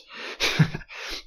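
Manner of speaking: quick voiceless laugh; a brief airy chuckle under the breath; short laugh. A narrator's reading. Elric amused by the Duke's probing, short voiceless laugh. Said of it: "Elric laughed".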